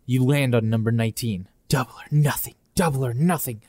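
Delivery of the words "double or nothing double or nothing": echoing voices. Acted. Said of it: "Two voices behind you echo".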